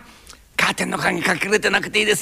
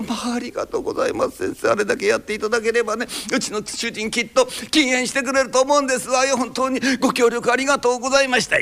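a hint of a lofty madam, a bit higher; haughty rich girl japanese; 4 semitones higher, faster than usual. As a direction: gush polite thanks like a well-off lady. Wife gushing thanks, ですわよ speech.

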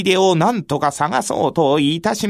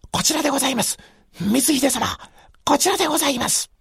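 higher, calling to the lord; 6 semitones higher, much faster than usual. Acted. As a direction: call them this way eagerly. Guide calls out to Mitsuhide. (呼びかける声で)

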